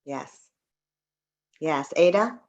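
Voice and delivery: normal talking voice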